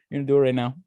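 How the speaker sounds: mock threat. Threatening the clerk for laughs.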